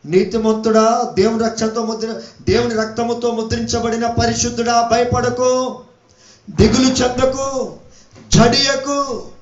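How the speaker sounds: ringing, measured encouragement; preaching exhortation. Real, not acted. Preacher urging God's righteous not to lose heart, ringing exhortation.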